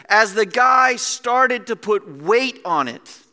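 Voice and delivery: loud, high, building intensity; real excitement, leaning hard on key words; excited preaching. Real, not acted. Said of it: "I got a little excited".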